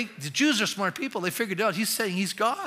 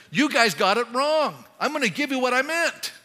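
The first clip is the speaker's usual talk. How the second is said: louder, higher correcting voice; emphatic Jesus; 5 semitones higher, 4 dB louder than usual. Retold or imitated. Jesus correcting the scribes, emphatic. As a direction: set them straight firmly. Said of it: "He said".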